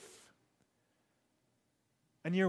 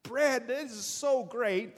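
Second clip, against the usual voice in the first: higher and louder, bursting with joy; excited telling; 7 semitones higher, 4 dB louder than usual. Pretend. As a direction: blurt it out, can't hold it in. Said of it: "telling everybody".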